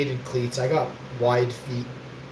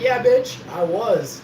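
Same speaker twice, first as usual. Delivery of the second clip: taunting brag; 5 semitones higher, slower than usual. Retold or imitated. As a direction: rub it in their faces. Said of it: "I'm like".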